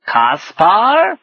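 high, loud questioning lizard; lizard's kid speak. Acted. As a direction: squawk the name as a puzzled little reptile. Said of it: "so sunk in kid speak".

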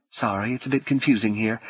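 soft woman's voice, lightly southern US; slight southern accent. Acted. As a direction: answer softly with a hint of Southern. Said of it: "tinged with a slight southern accent".

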